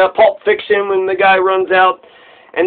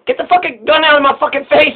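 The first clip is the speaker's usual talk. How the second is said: higher-pitched acted outburst, not shouted; mock angry retort; 6 semitones higher than usual. Man facing a cop's gun, mock angry retort. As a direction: play indignant without raising the volume.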